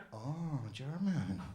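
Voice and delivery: slow, doubtful echo in a put-on accent; skeptical Turkish shopkeeper. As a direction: repeat it like you don't buy it.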